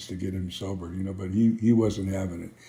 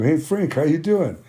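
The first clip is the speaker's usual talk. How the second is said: upbeat greeting; 6 semitones higher than usual. Retold or imitated. Acted cheerful phone greeting to friend.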